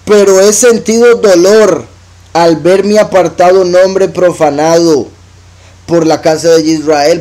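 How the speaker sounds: slow, solemn reading of the verse; scripture reading. Acted. Preacher reads God's words to the congregation, slow and solemn. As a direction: lift the verse, slow and weighty.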